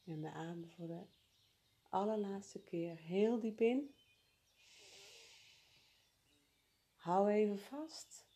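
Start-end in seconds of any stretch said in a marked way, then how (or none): 1.9-8.3 slow emphatic. Acted. Deep final breath instruction.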